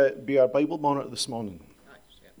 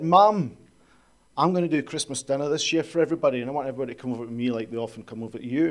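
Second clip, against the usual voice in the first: eager daughter; faster than usual. Retold or imitated. Daughter excitedly inviting family over.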